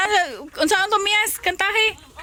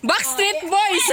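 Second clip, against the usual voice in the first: giggling through the name; laughing; 4 semitones higher, slower than usual. Real, not acted. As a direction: laugh while saying it. Laughing at the dance.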